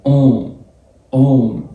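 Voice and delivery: أون as nasal 'on', M barely sounded; light touch of M. Shown as a demonstration. Teacher showing O plus M, nasal أون with faint M. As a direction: hold أون, letting M only brush the end. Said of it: "لمسة كده بسيطة من ال M".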